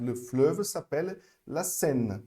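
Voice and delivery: Le fleuve s'appelle la Seine said slowly and clearly; slow French demo. Shown as a demonstration. Teacher reading a French sentence to students, slow. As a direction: read the whole sentence slowly, word by word. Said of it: "Repara aqui".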